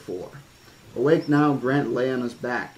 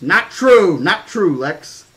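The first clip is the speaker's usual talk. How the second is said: loud, high protest at his sister; loud childish yell of denial; 6 semitones higher, 12 dB louder, slower than usual. Acted. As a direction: shout it down, indignant kid. Tim yelling at his sister.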